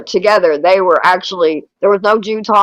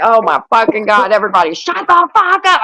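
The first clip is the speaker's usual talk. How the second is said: mock scream. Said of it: "I screamed".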